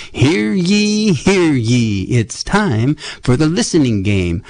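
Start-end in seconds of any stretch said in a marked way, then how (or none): 0.1-2.0 town crier. Pretend. Announces game like a crier.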